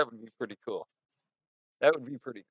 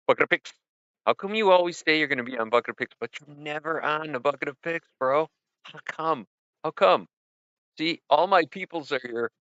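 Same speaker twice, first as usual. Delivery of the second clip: mock scolding; 4 semitones higher, 4 dB louder than usual. Scolding absent friend on voicemail.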